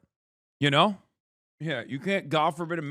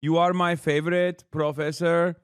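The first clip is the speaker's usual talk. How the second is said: mock fawning fan. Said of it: "They're like".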